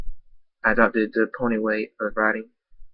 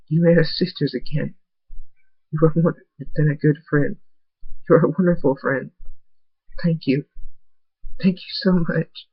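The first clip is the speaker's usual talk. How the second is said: tearful gratitude; 5 semitones higher than usual. Acted. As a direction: thank him through held-back sobs.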